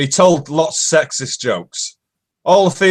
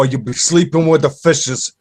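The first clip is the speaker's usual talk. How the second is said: lightly voiced Italian mobster; a hint of Italian mafia accent. Shown as a demonstration. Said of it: "any Italian mafia would say".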